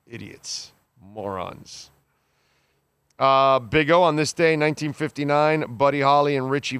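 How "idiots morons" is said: exasperated mutter. Real, not acted. Exasperated dismissal of idiots.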